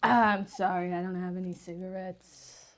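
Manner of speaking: whispered apology. Acted. Apologizing to creatures.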